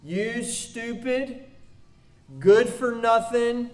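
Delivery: contemptuous insults spat out; scornful name-calling, mostly in his own voice; demo of insults. Shown as a demonstration. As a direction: sneer it like a bully tearing someone down. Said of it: "Maybe they sound something like this".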